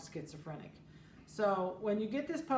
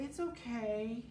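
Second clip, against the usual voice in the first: soothing; 3 semitones higher, slower than usual. Retold or imitated. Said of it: "don't go over and say".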